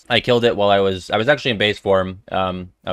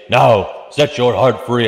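mock declaration; 4 dB louder, slower than usual. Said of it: "And we say".

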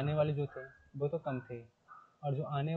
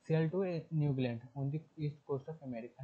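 slow textbook reading; much slower than usual. Shown as a demonstration. Teacher reading the English passage aloud to students, slowly. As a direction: read the passage word by word, very slowly.

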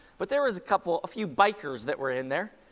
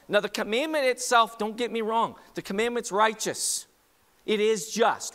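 raised pitch, forceful preacher; emphatic preaching; 6 semitones higher, 4 dB louder than usual. Real, not acted. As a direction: drive the point home to the congregation.

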